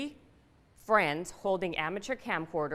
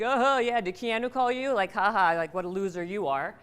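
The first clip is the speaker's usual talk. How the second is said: mocking classmates. Kids at school taunting her about Keanu, jeering mock. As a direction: rub it in like a schoolyard bully. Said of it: "now everyone's teasing me, like".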